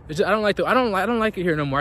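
talking while out on a walk; a bit breathy from walking outdoors. Real, not acted. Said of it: "I'm on a walk right now".

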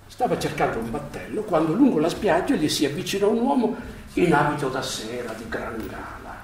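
unhurried storyteller reading a fable; fairy-tale reading voice; story narration. A narrator's reading. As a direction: tell it like a fairy tale to listeners. Story read aloud to the group.

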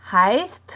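heist with a crisp S-T at the end; same st ending. Shown as a demonstration. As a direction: say heist just like the du form, st sounded. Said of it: "แต่ออกเสียงเหมือนกับตูเลย".

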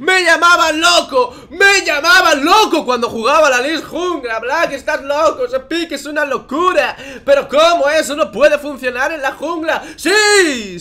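loud, high, slow triumphant rant; mad scientist. Acted. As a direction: cackle that they called you crazy. Rant that his pick works.

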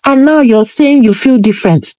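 a hint of an exasperated mother; scolding mother. Mother scolding Nala for coming back without water, mild. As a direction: nag her like a fed-up parent, lightly voiced.

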